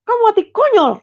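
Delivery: high, loud final blow; angry father yelling. Retold or imitated. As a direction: spit the verdict in rage. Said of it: "kata bapak saya gitu". (bentakan ayah yang murka)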